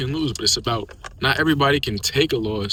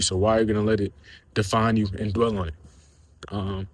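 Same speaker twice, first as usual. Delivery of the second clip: breathless from talking a lot; words pushed out short of breath; 2 semitones lower, 4 dB quieter than usual. Real, not acted. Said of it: "I'm kinda out of breath from talking that much".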